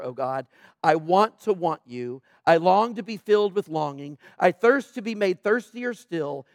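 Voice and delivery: prayer. Acted. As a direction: pray it as your own longing. Reads Tozer's prayer aloud.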